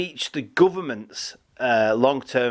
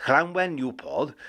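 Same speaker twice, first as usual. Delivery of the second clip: Llanwen said with a light Welsh lilt, not quite native; attempted Welsh accent; 3 dB quieter than usual. Shown as a demonstration. Presenter having a go at the Welsh place name in a Welsh accent. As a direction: try Llanwen the way a Welsh speaker would say it. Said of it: "If I do it in a Welsh accent".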